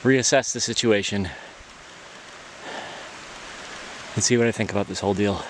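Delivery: slightly out of breath while hiking. Real, not acted. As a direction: talk while catching your breath. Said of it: "I'm a little out of breath".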